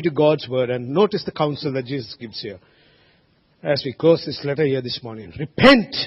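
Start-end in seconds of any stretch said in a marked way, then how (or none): 5.4-6.0 rising, louder cry of repent; Jesus's urgent call to repent, voiced by the preacher. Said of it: "he says".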